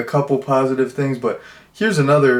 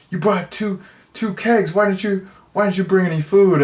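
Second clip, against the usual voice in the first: high, mock-incredulous squeaky voice; incredulous Ben; 8 semitones higher than usual. Ben asking Zach why he brought no food, high and incredulous. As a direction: squeak it out in disbelief, much higher. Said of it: "Ben's like".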